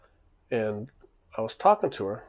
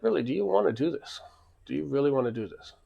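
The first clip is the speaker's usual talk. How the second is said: mild, higher-pitched disbelief, retold; incredulous challenge; 3 semitones higher than usual. Club owner doubting the kid wants a fight, mildly incredulous. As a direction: question him as if he can't mean it.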